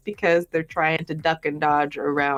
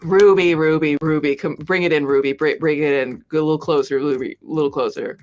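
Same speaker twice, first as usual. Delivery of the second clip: beckoning call; 2 semitones lower than usual. Pretend. Calling Ruby in to scold.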